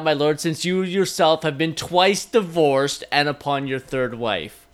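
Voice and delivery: a touch of a queen roasting her lord; imitating Cate Blanchett. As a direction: cut him down with a royal jab. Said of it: "continue imitating Cate Blanchett".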